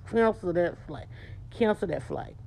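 a firm refusal through a set jaw; tight-jawed command. Shown as a demonstration. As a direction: say Cancel that flight with a tight lip and jaw. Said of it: "Tight lip, tight jaw".

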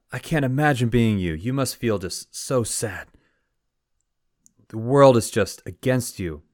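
high, swooping mock lament; dismayed villagers. Villagers pitying the newly widowed farmer, hammed-up dismay.

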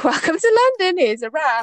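high-pitched sarcastic greeting, dropping back down; mock welcome. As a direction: announce it like a mock tourist welcome.

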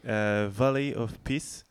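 slow, careful English accent on the title. Real, not acted. Radio host announcing the track title in an English accent. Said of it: "j'entraîne mon accent anglais".

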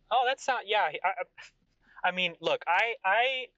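high, emphatic royal rant; boastful flustered king. Acted. King boasting of his baths and money, flustered.

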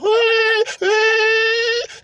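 high sung whine of an electric motor; Tesla rev imitation. Streamer imitates how a Tesla sounds revving, high electric whine. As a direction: mimic a Tesla revving up with a high whirring hum. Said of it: "that's how it sounds when you rev it".

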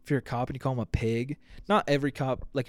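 ordinary talk

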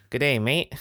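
lightly imitated Australian accent; a hint of an Aussie greeting. Telling co-host how people talk Down Under, mild mock Australian. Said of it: "the people talk funny and say".

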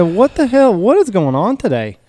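high startled what the hell; sudden exasperated question; surprised. Retold or imitated. Dad asks upset wife.

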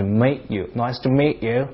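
meet drawn out, the E sliding toward "ay"; London long E; stretched meet. Shown as a demonstration. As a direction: drag the vowel in meet. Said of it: "就这种感觉".

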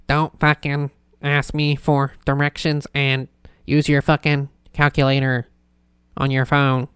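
halting, monotone amateur robot; robot impression sliding off course; bad robot voice. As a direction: do a half-baked robot voice. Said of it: "a bad, like, robot".

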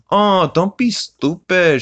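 high, slow, put-on scoff; dismissive Peter. Peter brushing off the townspeople, slow high scoff.

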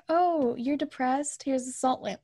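slow, drawn-out "oh" of pretend concern; mock sympathy. Hippie shop people advising the depressed, mock sympathy.

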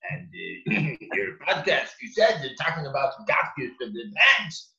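put-on creaky voice of a ninety-year-old; very old man. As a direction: quote him like a frail old man. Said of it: "he was doing his old man voice".

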